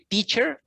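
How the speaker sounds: "teacher" stressed on TEA; stress on the first syllable. Shown as a demonstration. Tutor asks student which stress is heard in teacher, stress on TEA. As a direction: hit the first syllable of "teacher", let the second drop. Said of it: "which is the main stress".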